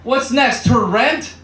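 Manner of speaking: high, squeaky, scandalised wail; mock outrage. Comedian squealing in fake horror at a video. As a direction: clutch your pearls in a high voice.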